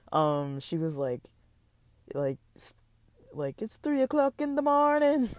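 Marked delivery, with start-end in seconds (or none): 3.6-5.3 put-on Trinidad accent, higher pitch. Retelling a downstairs neighbour scolding at night: imitating a Trinidadian accent. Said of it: "from Trinidad and Tobago or something".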